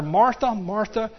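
slow, tender rebuke; Jesus gently calming Martha; gentle Jesus. Acted. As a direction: soothe a worried friend. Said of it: "Jesus answered and said to her".

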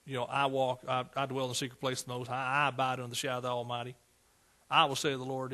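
ordinary delivery

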